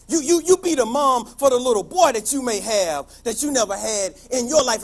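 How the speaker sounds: loud second take of the phrase; rising loud. Acted. Repeating the line, now building.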